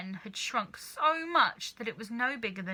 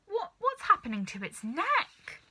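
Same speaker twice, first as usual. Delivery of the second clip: high startled question; alarmed; 10 semitones higher, 3 dB louder than usual. A narrator's reading. Missus Cranky seeing the neck stretch, high alarmed cry. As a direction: gasp it out in alarm.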